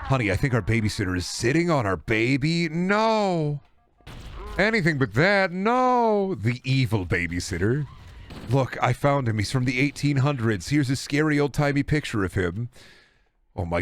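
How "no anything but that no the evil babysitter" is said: high, hammed-up terrified cry; mock horror scream. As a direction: overplay a panicked parent. Parent voiced in horror scene.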